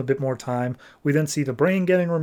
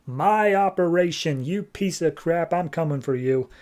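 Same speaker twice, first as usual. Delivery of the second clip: Cyborg Superman railing; 4 semitones higher than usual. Acted. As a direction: stretch out the words in hammed-up anger. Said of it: "Cyborg Superman's railing against Brainiac".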